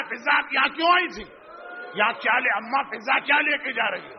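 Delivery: Zainab's hurried, alarmed questions, quick; anxious questioning. Retold or imitated. Zainab anxiously asks Fizza what she carries, alarmed. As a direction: rush the words out in worry. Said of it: "گھبرا کے کہا".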